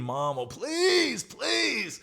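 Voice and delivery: put-on very high, whiny kid plea; begging, pleading. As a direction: beg Mom desperately in a squeaky child voice. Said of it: "I beg it and I'm pleading".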